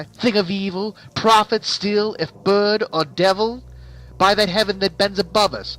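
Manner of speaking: very high and loud, climbing anguish; frantic plea. Acted. The narrator desperately begs the raven about Lenore. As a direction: cry out for Lenore at the top of the voice.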